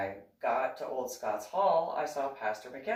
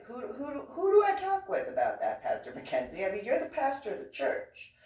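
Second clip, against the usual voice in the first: asking through real laughter; laughing question; 11 semitones higher than usual. Real, not acted. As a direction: laugh as you ask it. Laughing while asking the pastor.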